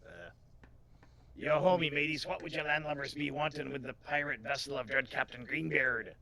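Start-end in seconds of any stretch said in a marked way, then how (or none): 1.3-6.1 lightly voiced pirate challenging landlubbers; a hint of sea-dog swagger; pirate sailor. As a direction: hail them like a pirate.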